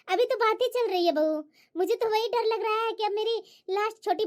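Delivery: a hint of a caring old mother-in-law. Mother-in-law reassuring her elder daughter-in-law, lightly voiced older woman.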